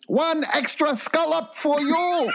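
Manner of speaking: put-on high, slow caricatured Asian accent; drawn-out high mock Asian shopkeeper; imitated Asian accent. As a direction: offer it grandly in an Asian accent. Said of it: "the Asian guy comes up and he goes".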